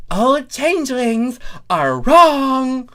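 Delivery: high, loud, slow shout; shout over them. A narrator's reading. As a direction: cut in to retake control. Thorax still shouting them down.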